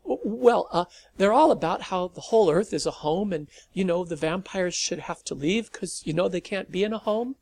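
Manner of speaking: put-on teen rushing his explanation as Malcolm grows impatient; sped up, nervous. A narrator's reading. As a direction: hurry through it before he loses you. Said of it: "saw patience wearing thin and sped up".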